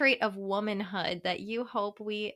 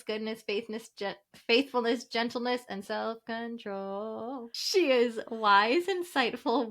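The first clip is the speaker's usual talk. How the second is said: announcer voice. Acted. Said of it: "Kevin told me I had to read it like an announcer".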